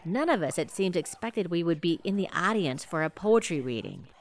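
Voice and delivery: low golf-announcer hush; hushed commentary. Acted. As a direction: lean in and report quietly.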